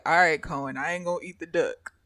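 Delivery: a hint of a low, easy father; dad voice. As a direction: reassure the kid offhandedly. Dad answers, lower voice.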